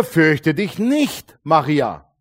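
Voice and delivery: drawn-out, gentle angel voice; slow it right down and reassure; slow angel's assurance. Acted. Angel speaks to Maria. (langsam und beruhigend gesprochen)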